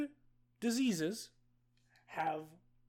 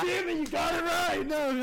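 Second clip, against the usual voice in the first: laughing shout, higher; loud outburst; 8 semitones higher, 5 dB louder than usual. Real, not acted. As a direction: yell it through laughter. Game host reacts loudly.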